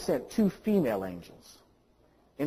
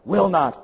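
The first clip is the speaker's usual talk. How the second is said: "will not" pressed hard and a bit louder; underlined words; 2 semitones higher, 4 dB louder than usual. Retold or imitated. Pastor's letter underlining, "will not" stressed.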